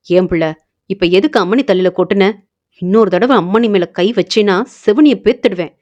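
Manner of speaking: a touch of fatherly anger, quick; angry scolding. Acted. Father mildly angry, scolding mother for hitting daughter. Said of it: "என கோபமாக திட்டியவர்".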